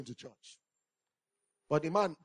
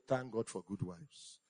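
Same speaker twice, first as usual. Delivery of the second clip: slow, softer call for the church to repeat; 5 semitones lower, 13 dB quieter, slower than usual. Shown as a demonstration. Preacher giving the church a line to echo, slow and soft. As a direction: lead the congregation line by line, slowly. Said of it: "But say".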